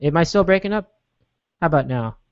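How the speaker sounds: echoing reverb on the phone line; heavy reverb. Real, not acted. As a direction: voice drowned in reverb. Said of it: "This, this massive reverb".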